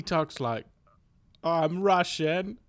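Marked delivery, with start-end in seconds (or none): 1.4-2.6 slow attempt at Russian that slips into British; botched Russian accent. Shown as a demonstration. Guest imitates Russian flatmate, accent stuck in British. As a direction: try Russian but stay stuck in British. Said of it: "I can't get out of British".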